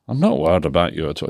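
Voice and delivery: put-on light Scottish accent, quick; a hint of a Scottish old man. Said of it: "This is my attempt at Scottish accent".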